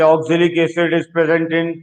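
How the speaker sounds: slowly reading out a multiple-choice question; reading an exam question. Retold or imitated. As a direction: read it slowly like a question paper. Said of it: "question इस तरह से नहीं आएगा". (परीक्षा प्रश्न को धीरे-धीरे पढ़ते हुए)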